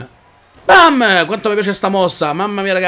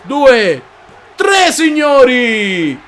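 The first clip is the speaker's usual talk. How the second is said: shouted slow pin count; 2 semitones higher, 4 dB louder, much slower than usual. Real, not acted. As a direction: drag out tre like a referee.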